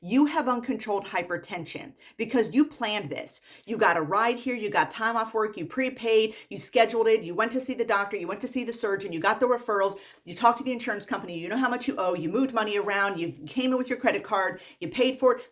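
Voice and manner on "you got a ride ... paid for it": exasperated listing. Real, not acted. Exasperated rant listing patient's planning.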